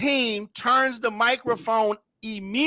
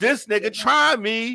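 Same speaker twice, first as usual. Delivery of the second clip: ordinary delivery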